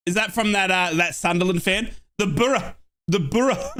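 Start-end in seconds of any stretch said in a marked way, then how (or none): 2.2-3.7 "The Borough" with a short "Buh-ruh"; local Borough. Shown as a demonstration. Fan teaching the chat how to say it, local vowel. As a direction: say "The Borough" the way the local fans chant it. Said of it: "you need to say it like this".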